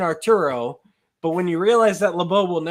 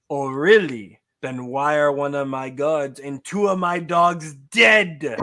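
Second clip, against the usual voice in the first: angry accusation; 3 semitones lower than usual. Acted. LeBeau confronts the kid angrily.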